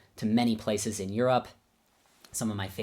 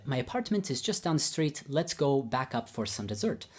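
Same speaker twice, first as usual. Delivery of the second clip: higher-pitched imitation of Babayan's accent; 4 semitones higher than usual. Teacher inviting pupils back for dessert, in imitated Babayan accent. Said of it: "I'll do my best Babayan accent".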